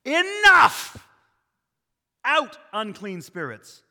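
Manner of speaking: high, explosive shout of command; loud, great authority. Acted. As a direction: cast them out at full voice. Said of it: "spoke loudly so that all could hear".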